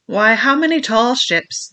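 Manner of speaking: high, loud, slow pirate outburst; pirate crying out. A narrator's reading. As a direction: fling it out like an old buccaneer. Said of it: "cried Silver".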